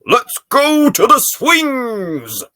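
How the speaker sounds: high, slow, loud excited call; eager great-grandpa. Acted. Great-grandpa suggests going to the swings, high and eager. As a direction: call it out like a delighted old man. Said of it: "and then he says".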